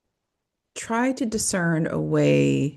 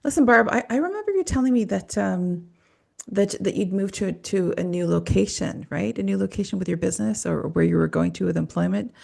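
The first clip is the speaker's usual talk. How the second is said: pitched-up, offhand fishing question; casual probing therapist; 3 semitones higher than usual. Retold or imitated. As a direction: ask Barb casually, higher voice. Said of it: "So it would sound like this".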